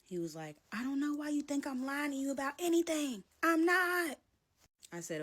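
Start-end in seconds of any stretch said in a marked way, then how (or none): 0.7-4.2 higher, rising indignant voice of him; mock insistence. Boyfriend insisting he isn't lying, higher indignant mimic. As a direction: protest too much.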